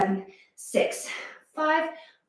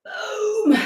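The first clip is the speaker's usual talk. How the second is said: triumphant exclamation; 9 semitones higher than usual. Real, not acted. Finishing the squat set.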